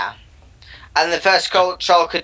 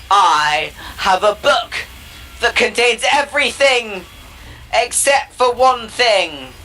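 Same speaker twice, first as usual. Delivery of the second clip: slow, higher mock-royal voice; a touch of a haughty king, higher and slow; scornful king; 5 semitones higher than usual. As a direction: lord it over him slowly. King scorns second troll.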